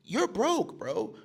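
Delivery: usual speaking voice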